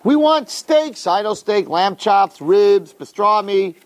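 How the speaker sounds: mock a crowd demanding food; complaining people. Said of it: "Their complaint was".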